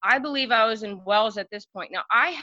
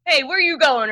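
a bit higher and louder, teasing call; little voice; 5 semitones higher, 6 dB louder than usual. Retold or imitated. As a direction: call out teasingly to girls walking past. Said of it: "In your little voice that you do".

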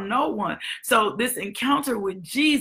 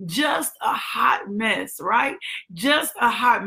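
preaching at full force. Real, not acted. Pastor rousing the church about Saul's change, preaching at full force. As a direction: drive it home to the congregation. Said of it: "preaching at full force".

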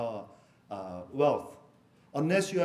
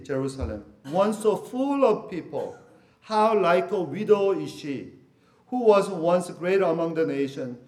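scripture reading; 4 dB louder than usual. Acted. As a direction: lift the lament off the page with weight. Reads Lamentations aloud.

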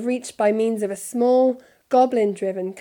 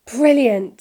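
awed delight; 4 semitones higher, 9 dB louder than usual. A narrator's reading. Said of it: "said Fred and George together".

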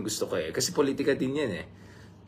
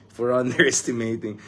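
laughing through it. Real, not acted. Vlogger mocking pundits' wrong predictions, laughing. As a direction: chuckle breaking into underestimating.

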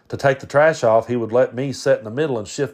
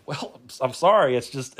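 ordinary talk

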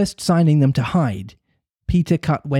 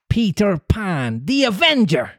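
terrible answer; 8 semitones higher than usual. A narrator's reading. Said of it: "came the terrible answer".

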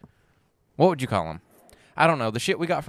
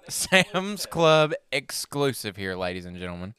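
announcer voice. Acted. Hyping a product to listeners.

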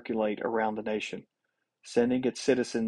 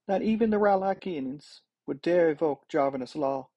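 higher-pitched character voice, protesting; objecting senator; 6 semitones higher than usual. A narrator's reading. Senator disputing the king's invasion theory, higher-pitched protest. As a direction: object in a raised pitch, as a second speaker.

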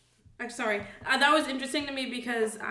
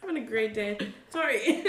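laughing. Real, not acted. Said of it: "went down the wrong pipe".

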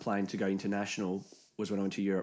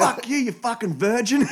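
loud, high, laughing jeer; laughing insult; 12 semitones higher, 7 dB louder than usual. Retold or imitated. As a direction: jeer at him through laughter. Insulting the kid in game.

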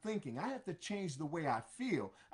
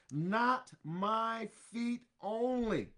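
slow, emphatic, excited plea; Peter in his excitement; 2 semitones higher, slower than usual. Acted. Peter excitedly begging Jesus, slow and emphatic. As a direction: urge it out in excitement. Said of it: "in his exciteness".

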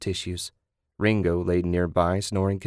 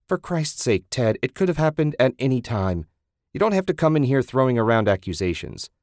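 exasperated; 4 semitones higher than usual. Acted. Susan arguing back.

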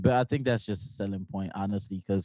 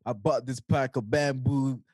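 mocking straight-faced mimicry; 2 semitones higher than usual. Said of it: "How do you say that with a straight face?".

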